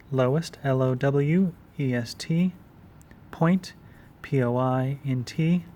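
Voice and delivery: lowest point spelled letter by letter; spelling it out. Shown as a demonstration. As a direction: say each letter of L O W E S T. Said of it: "spelling out for notes".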